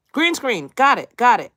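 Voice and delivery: real excitement, loud and high; excited cheer. Real, not acted. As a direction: celebrate cracking the trick out loud. Excited at finding green screen.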